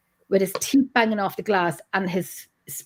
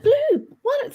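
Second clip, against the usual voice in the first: high, sharp call to stop the dog; yelling at the dog. Retold or imitated. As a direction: shout the dog's name in alarm. Yelling at dog attacking boy.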